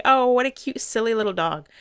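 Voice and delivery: put-on high, loud sing-song baby-talk gush; mock the cooing crowd with a gushing high voice; sarcastic high cooing over a cute dog; mocking cutesy gush. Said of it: "And people are gonna say".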